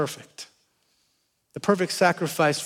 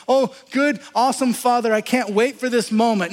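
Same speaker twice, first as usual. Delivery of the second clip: mock cheerful; 5 semitones higher than usual. Jesus in the garden to the Father, mock chipper. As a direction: play the fake-happy version he didn't pray. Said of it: "he's not crying out to God going".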